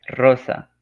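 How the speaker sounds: loud call of the name. Shown as a demonstration. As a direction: call across the room. Vocative example, calling out.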